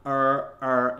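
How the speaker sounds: "Er" forced with the jaw, like a seal; seal-like wrong ER. Shown as a demonstration. Coach mocking the wrong method, seal-like ER. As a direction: bark "Er" like a seal, jaw working. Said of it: "you'll sound like a seal".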